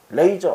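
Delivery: 레이저 said with a long "ei" first; mistaken pronunciation. Retold or imitated. Young teacher asking the shopkeeper for lager, mistaken 레이저 pronunciation. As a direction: misread lager as 레이저, leaning on the "ei". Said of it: "A자에 강세가 붙으면 A로 발음이 돼".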